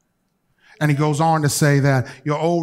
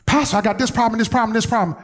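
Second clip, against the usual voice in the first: lightly voiced complaining church member, a bit higher; whiny congregant; 6 semitones higher, faster than usual. Congregant bringing the same problem to the pastor, lightly mimicked whine. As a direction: mimic someone nagging the pastor about their problem.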